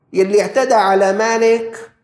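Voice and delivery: preaching emphasis. Acted. Preacher raises voice.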